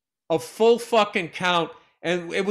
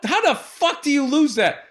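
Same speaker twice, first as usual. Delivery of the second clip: retold indignant outburst; 7 semitones higher than usual. Retelling his outburst about the loss.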